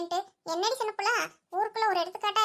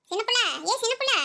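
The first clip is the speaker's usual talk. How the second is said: calling out; 3 semitones higher than usual. Acted. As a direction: shout her name to make her turn. Friend calls out, still ignored.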